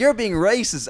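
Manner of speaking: mock feminist accusation. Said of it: "she's like".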